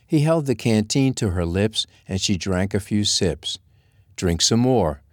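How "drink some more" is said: firm order. Acted. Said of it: "he ordered".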